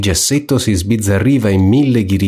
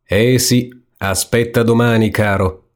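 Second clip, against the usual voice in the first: warning; 2 semitones higher than usual. Acted. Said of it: "ammonì il diavolino".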